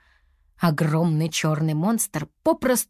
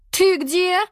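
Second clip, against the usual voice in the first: high, loud call for a lost pet; high ringing call of a girl searching; 12 semitones higher, 4 dB louder than usual. A narrator's reading. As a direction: call into the woods, worried. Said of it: "звала Туа".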